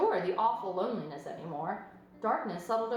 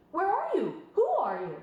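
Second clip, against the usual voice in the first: louder, urgent piglet calling into the dark; excited calling; 9 semitones higher, 5 dB louder than usual. A narrator's reading. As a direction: call out to the unseen voice. Wilbur calls out.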